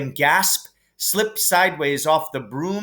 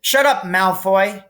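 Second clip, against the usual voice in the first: higher, sharp snap at a bully; snapped; 7 semitones higher, 5 dB louder than usual. A narrator's reading. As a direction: cut him off angrily. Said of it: "snapped Parvati Patel".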